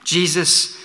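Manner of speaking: simple plea. Retold or imitated. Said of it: "making one simple plea".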